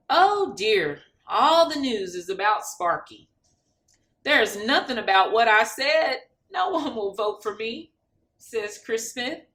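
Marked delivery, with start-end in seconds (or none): 0.1-7.9 dismayed outburst. Acted. Candidate dismayed at news.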